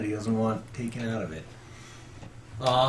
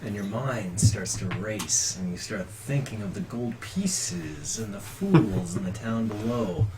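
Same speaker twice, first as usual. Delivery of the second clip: scene-setting narration; 4 semitones lower, 4 dB quieter than usual. Acted. Game master sets the scene.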